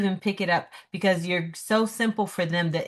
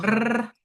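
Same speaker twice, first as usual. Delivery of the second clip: rolled R trill; 3 semitones higher than usual. Shown as a demonstration. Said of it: "You can't do that?".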